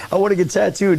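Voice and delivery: high-pitched mimicry of a woman customer; lifted, imitated female customer; a singer. Acts out the singer at the shop.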